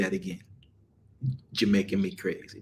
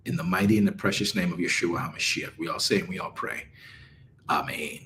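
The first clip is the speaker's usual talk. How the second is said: prayer; 3 semitones lower than usual. Acted. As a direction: pray humbly over the group. Leads a prayer.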